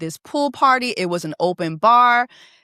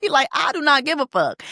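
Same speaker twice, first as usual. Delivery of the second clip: mock indignant, pitched up; imitating dismissive drunk husband; 5 semitones higher than usual. Drunk husband dismisses crying wife, mock exasperation. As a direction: brush her off with comic finality. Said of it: "And he's like".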